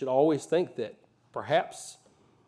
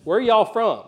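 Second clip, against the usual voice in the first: higher, louder Southern locals' voice; small-town Southern accent; 8 semitones higher, 8 dB louder, slower than usual. Retold or imitated. Beulah locals question two outsiders, in an imitated Southern accent. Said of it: "y'all think I've got a Southern accent".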